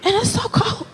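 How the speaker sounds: so stretched and complained; it's so cold, whined on SO; stress on so cold. Real, not acted. Complaining to the audience about the cold, whiny stress. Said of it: "complaining about cold".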